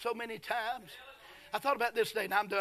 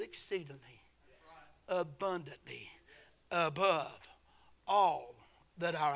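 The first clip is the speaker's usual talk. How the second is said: slow, soft whisper of abundantly; whispered word; 5 semitones lower, 3 dB quieter, slower than usual. Real, not acted. Preacher whispering a scripture word to the church.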